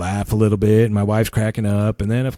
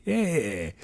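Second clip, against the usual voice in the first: gloating tease; 2 semitones higher than usual. Retold or imitated. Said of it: "Rubbing it in on me".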